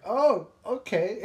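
high, slow, laughing "oh okay". Retold or imitated. Caught eating nuggets by the boss, high laughing reply. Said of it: "I was like".

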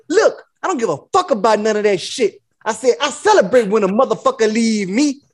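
retold pimp bragging; going in with mock pimp swagger; lightly put-on cocky pimp; Iceberg Slim. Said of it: "I was Iceberg Slim in that shit".

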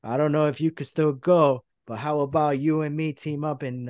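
cocky cut-in, mildly played up; L A Knight. Wrestler challenging Cena to team up, mock promo voice. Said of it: "L A Knight gets the phone".

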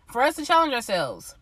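stuffy, congested nose. Real, not acted. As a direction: talk through a blocked nose. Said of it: "I'm a little congested".

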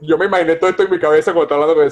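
fast, laughing through the words. Real, not acted. Coach laughs at her own joke while telling it, laughing. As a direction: giggle it out, talking fast.

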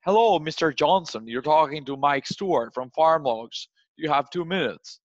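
stiff formal sales call. Shown as a demonstration. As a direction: read it like a polite stiff salesman. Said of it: "So you don't wanna be like".

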